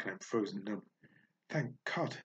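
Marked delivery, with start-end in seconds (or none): 1.5-2.2 chirping. Acted. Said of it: "Mousetrap chirps into my ear".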